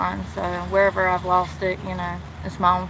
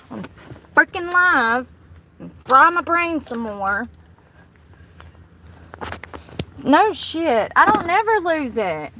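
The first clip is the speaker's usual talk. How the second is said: relieved excited rant; 5 semitones higher, 6 dB louder than usual. Real, not acted. Relieved after finding phone.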